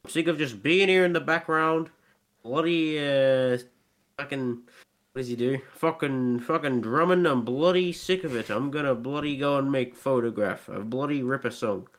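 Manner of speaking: a hint of a sulky drummer fed up in the background; impression of a drummer. The drummer ranting about his bandmates, lightly mock sulky. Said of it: "I can do a good Ringo impression".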